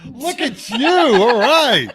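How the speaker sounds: high, loud delighted cheer; excited praise. Real, not acted. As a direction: hype up the cohost's clever line. Impressed by cohost's rhyme.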